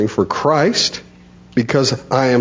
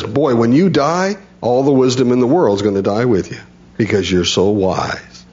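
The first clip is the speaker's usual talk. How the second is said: sarcastic. Retold or imitated. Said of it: "You can hear Job's tone".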